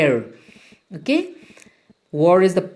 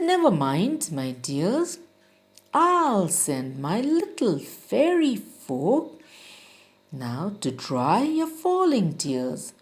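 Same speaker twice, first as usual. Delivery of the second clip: put-on lilting reassurance, a touch of a kindly old man; comforting father; 4 dB quieter than usual. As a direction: comfort the weeping clouds. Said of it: "He said".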